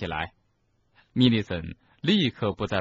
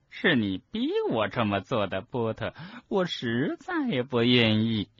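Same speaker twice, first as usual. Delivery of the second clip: agitated reluctance; 3 semitones higher than usual. Acted. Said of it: "我们立即一边说，一边仍旧在原地烦躁不安地晃动着".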